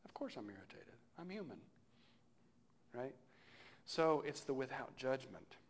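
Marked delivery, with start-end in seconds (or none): 0.0-1.6 gentle self-acceptance. Retold or imitated. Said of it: "being mindful that".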